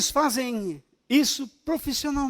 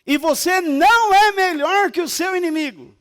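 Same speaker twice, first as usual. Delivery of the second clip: loud rebuking preacher; preaching at full force; 4 semitones higher, 4 dB louder than usual. Acted. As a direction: thunder it from the pulpit.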